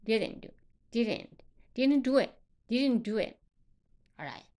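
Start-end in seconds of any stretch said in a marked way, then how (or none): 0.0-3.4 "didn't" with the final t held back, unreleased; silent t. Shown as a demonstration. Teacher demonstrating loss of plosion, silent t in "didn't". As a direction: link "didn't do" without sounding the t. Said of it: "这个特呢是不发音的".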